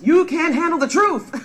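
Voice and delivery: high, loud theatrical outburst; hammed-up movie-style yell; mock dramatic shout. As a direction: shout it like a courtroom showdown, playfully. Acts a famous film line.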